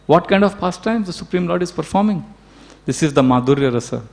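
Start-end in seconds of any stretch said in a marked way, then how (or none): 0.0-2.2 hushed, higher-pitched retold wonder; amazed. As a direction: softly marvel on the demigods' behalf. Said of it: "the demigods are amazed".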